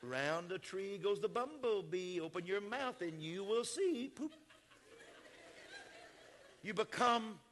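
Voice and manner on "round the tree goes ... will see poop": put-on lightly done soft singsong baby talk to a toddler. Shown as a demonstration. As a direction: coo it softly like talking to a baby. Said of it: "You get to talking like this".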